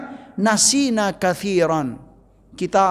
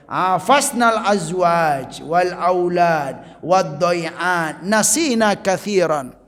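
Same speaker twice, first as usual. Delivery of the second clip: slow, intoned Arabic hadith recitation; much slower than usual. Acted. Preacher reciting the hadith to the congregation, slow and intoned. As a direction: chant the hadith text slowly and solemnly.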